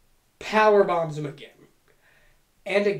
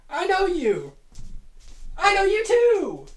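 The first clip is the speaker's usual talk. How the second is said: mock tender reunion; 12 semitones higher, 3 dB louder than usual. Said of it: "they do the".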